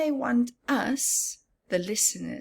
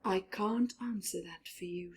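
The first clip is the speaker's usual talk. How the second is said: starfish; 6 dB quieter than usual. Acted. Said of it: "said the starfish".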